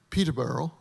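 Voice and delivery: "Peterborough" with the local ending; British local pronunciation. Shown as a demonstration. Pastor naming his friend's town in England, local pronunciation. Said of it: "It's not Peterborough, it's Peterborough".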